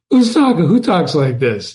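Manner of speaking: imitating a puzzled student; mock a baffled pupil; mock disbelief. Teacher voicing students' disbelief at the poetry, mocking. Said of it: "you're gonna say".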